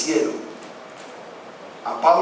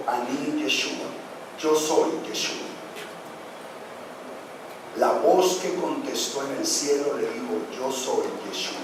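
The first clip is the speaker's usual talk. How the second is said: voz celestial suave; 4 semitones lower, 7 dB quieter than usual. Acted. Voz del cielo responde.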